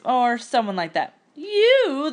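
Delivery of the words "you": mocking high hoot. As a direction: hoot at her in disbelief. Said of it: "the girls hooted".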